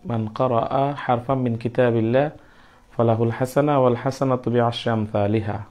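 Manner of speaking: measured Arabic recitation of the hadith; recited Arabic hadith. Shown as a demonstration. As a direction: intone it like a quoted hadith.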